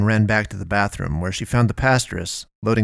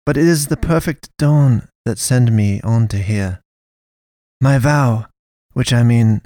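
louder, resolute; firm pastoress; 4 semitones higher, 4 dB louder than usual. A narrator's reading. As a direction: state the vow with conviction. Pastoress explains killer vows.

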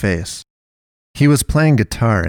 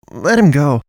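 higher-pitched, forceful order; firm demand; 6 semitones higher, 4 dB louder than usual. A narrator's reading. Naomi telling the pastoress to release the man, firm demand. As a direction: insist on it, pitched up.

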